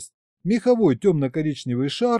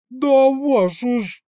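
much higher, louder, slow yelp; 10 semitones higher, 5 dB louder, slower than usual. A narrator's reading. Narrator yelps when the tsar swings at him. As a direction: yell out as if hit. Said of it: "завопил я".

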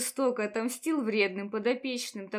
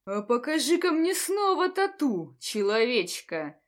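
haughty command. Acted. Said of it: "Приятным бархатным баритоном высокомерно приказал".

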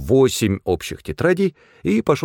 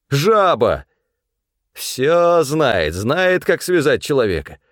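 man held by hunters jeering at the manager; defiant rant; 5 semitones higher than usual. A narrator's reading. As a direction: rant and jeer while held.

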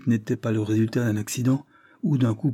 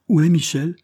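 feverish interruption, high and loud; 8 semitones higher, 6 dB louder than usual. A narrator's reading. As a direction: burst in with an urgent question. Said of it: "interrompit fiévreusement Lord Dane". (interruption fiévreuse, voix haute et forte)

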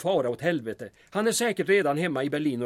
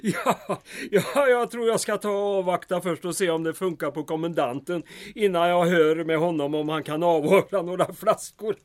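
laughing. Acted. Mayor jokes while laughing.

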